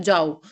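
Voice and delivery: "जाओ" set apart, low and falling; separate falling word. Shown as a demonstration. Teacher explaining the comma, "जाओ" standing alone. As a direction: drop the pitch on a lone "जाओ". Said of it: "के बाद comma आएगा".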